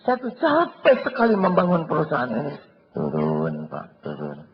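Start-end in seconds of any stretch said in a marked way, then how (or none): 0.0-2.6 high, loud boss voice; a boss bragging about his toil; self-pitying boss. Acted. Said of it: "Sama di kantor jadi atasan".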